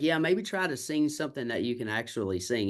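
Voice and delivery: mildly patronizing retold suggestion; a little condescending. Audition judge to the singer he turned down, a little condescending. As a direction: imitate someone talking down, lightly. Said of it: "He was a little condescending".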